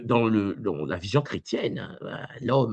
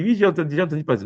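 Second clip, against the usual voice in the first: mimicking a viewer; 5 semitones higher, 4 dB louder, much faster than usual. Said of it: "Pangui me dit".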